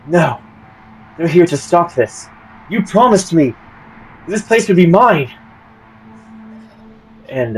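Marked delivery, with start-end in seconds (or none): 0.1-5.3 higher and louder, voice cracking with hurt; breaking, betrayed plea. Acted. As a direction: she feels the promise slipping away. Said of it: "you see her expression break".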